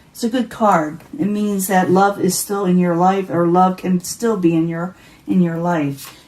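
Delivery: short of breath, sore throat. Real, not acted. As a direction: speak a little winded, throat sore. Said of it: "If I sound short of breath".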